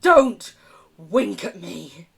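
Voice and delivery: mock-stern American accent, first word loud. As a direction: bark the first word in an American accent, then stretch the rest. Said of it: "American accent is just there".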